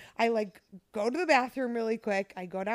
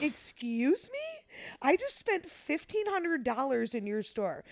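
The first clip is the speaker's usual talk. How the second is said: imitating an indignant mother telling someone off; light retold outrage, building to "how dare you"; mock angry mom; 3 semitones higher than usual. Mom defending her daughter to the store guard, mock indignant. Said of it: "gets mad at the guy and starts yelling".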